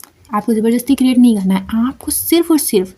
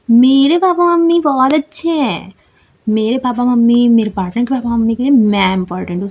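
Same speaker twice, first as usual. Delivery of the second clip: confident attitude. Shown as a demonstration. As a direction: say it like you own it. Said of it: "इस तरीके से ना attitude लाओ और इस टोन में". (आत्मविश्वास और एटीट्यूड के साथ)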